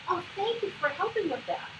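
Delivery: high-pitched grateful praise; celebrating. Shown as a demonstration. Coach shows thanking child who picked pencil up, celebrating. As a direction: make a happy fuss of thanking. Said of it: "find things to celebrate about the interaction".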